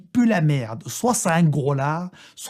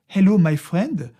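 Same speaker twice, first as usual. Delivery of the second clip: slow, hammed-up helpless foreigner in accented English; mock plea of a lost tourist, rising at the end; playing lost; 3 semitones higher, slower than usual. Pretending to be lost before a stranger, slow fake-helpless plea. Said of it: "je fais genre, je suis perdu".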